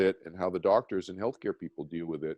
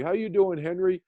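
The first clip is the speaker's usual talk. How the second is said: imitating George; 9 semitones higher than usual. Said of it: "And George would say".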